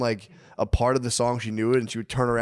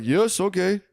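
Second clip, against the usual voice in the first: higher chorus of mock South Asian accents; 8 semitones higher, slower than usual. Four outsourced workers on a call, in a hammed-up South Asian accent. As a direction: chime in like four eager voices at once. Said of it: "Just a chorus".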